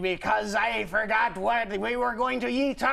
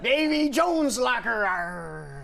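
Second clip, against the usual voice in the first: hammed-up pirate growl; light mock pirate; slower than usual. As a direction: play the pirate. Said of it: "try out new voices".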